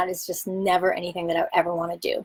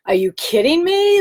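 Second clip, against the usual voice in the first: retold shocked squeal, much higher and louder; mock disbelief; 10 semitones higher, 5 dB louder than usual. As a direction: replay the teenage shock, pitched way up. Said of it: "I was like".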